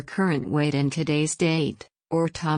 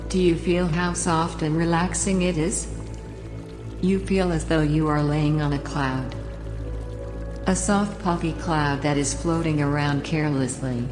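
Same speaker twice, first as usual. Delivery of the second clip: calm, unhurried relaxation guide voice; sleep story narrator. Acted. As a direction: guide the listener down into the bed. Leads a relaxation induction.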